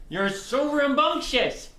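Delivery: slow, high cooing to a dog; doting pet talk. Real, not acted. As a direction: draw it out sweetly to the pet.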